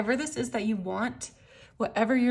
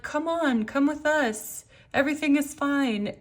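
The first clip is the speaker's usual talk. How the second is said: luring voice; 5 semitones higher than usual. Retold or imitated. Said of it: "It's like".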